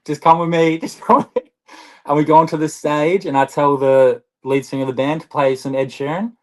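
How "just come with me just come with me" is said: high, laughing urging; giggly just come with me; laughing plea. Retold or imitated. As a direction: coax her along while cracking up. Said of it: "I'm just like".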